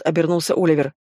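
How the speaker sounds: ordinary delivery, nothing marked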